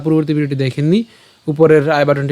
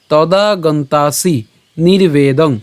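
slow, measured shloka recitation; Sanskrit verse recitation; much slower than usual. Shown as a demonstration. Teacher presenting the Gita verse to a class, slow Sanskrit recitation. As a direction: draw out the long vowels, syllable by syllable. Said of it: "আমি যদি আবার বলি".

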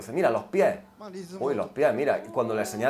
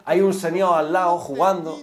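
ordinary talk, nothing marked

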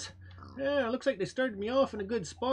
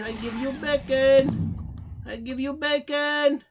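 loud begging pig; 2 semitones higher, 6 dB louder than usual. Pretend. Pig bargaining with hunter.

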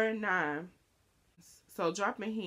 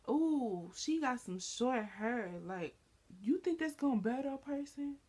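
catty gossip voice; 5 semitones higher than usual. Retold or imitated. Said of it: "I can say".

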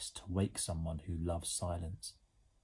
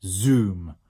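loud, drawn-out gleeful cry; boy's delighted holler; howled in delight; 10 dB louder, much slower than usual. A narrator's reading. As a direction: whoop it slowly and loudly. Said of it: "howled the boy in delight".

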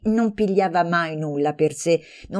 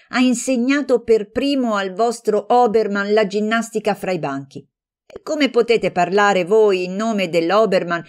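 heated attack; 4 semitones higher, 4 dB louder than usual. Acted. Heated quarrel between friends.

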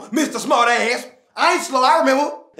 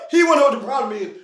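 fast, laughing repeat; laughing in disbelief; faster than usual. Acted. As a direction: laugh through the words.

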